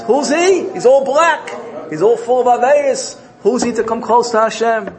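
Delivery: high, loud acted accusation; indignant objection. Angels look at the sinner, high indignant challenge.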